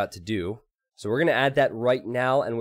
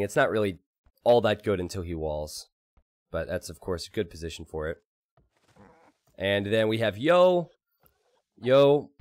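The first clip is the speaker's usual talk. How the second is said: esports caster. Acted. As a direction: cast it like a live tournament. Casts the game after announcing it.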